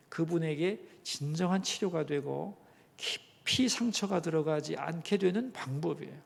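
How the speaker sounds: usual speaking voice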